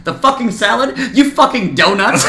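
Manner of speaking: hammed-up chef outrage at the cook, laughing at the end; imitating Gordon Ramsay. Host retells Ramsay scolding the cook, mock Ramsay rant.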